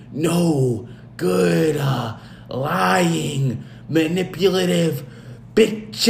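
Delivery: slow, hammed-up dramatic husband voice; mock Triple H vows. Host retelling Triple H's vows in mock drama. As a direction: drag out the vows like a wronged husband. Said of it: "He says".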